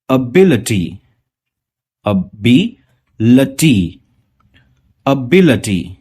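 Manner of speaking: एबिलिटी split as अबी, लटी then said whole; slow model pronunciation. Shown as a demonstration. Teacher showing students how to say एबिलिटी, syllable by syllable. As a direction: say एबिलिटी syllable by syllable, ending अटी. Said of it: "देखिए मैं कैसे pronounce कर रहा हूं".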